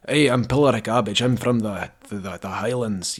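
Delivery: throaty Scottish accent, lightly put on; Scottish Highlands accent. Shown as a demonstration. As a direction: do a Highlands Scot with some throatiness. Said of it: "Not a real Scottish accent".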